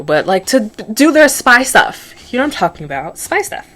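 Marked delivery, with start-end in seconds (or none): 3.2-3.7 breathy spy whisper; whispered aside. Pretend. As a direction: hush it like a secret. Whispered aside about spy stuff.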